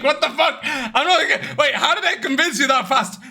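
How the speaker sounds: amused, incredulous retelling; laughing disbelief. Retold or imitated. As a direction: crack up while retelling your own astonishment. Laughs in disbelief at her quick approval.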